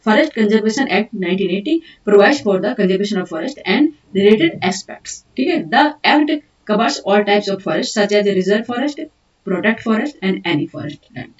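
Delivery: slow, deliberate dictation of English notes. Acted. Teacher dictating notes to students, slow and deliberate. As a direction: dictate each word so students can write.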